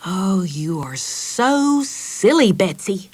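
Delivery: slow, cross big sister. Acted. Meg tells Betsy off at the table, cross. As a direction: scold her little sister wearily. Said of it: "said Meg crossly".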